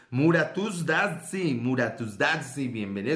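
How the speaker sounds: slow mock-Arabic accent. Host welcoming someone, mock Arabic accent. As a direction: put on an exaggerated Arabic accent. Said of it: "Eso es como más árabes".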